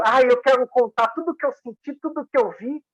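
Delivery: acted overeager blurting; itching to tell. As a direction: act as if bursting to spill it all. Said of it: "com a boca, assim, formigando".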